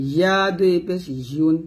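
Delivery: ইউন with mid-tongue to the palate. Shown as a demonstration. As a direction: glide the Y of ইয়া off the palate. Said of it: "জিহ্বার মধ্যখানে উপর তালুর সঙ্গে লাগিয়ে".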